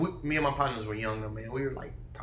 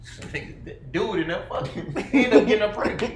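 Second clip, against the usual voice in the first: laughing explanation; 3 semitones higher, 5 dB louder than usual. Retold or imitated. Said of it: "And I was like".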